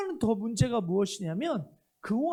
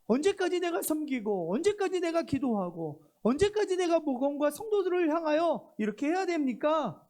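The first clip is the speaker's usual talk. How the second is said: raised, pleading lament to God; pleading complaint; 4 semitones higher than usual. Acted. Prophet pleading with God, higher and insistent. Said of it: "라고 말하는 것이".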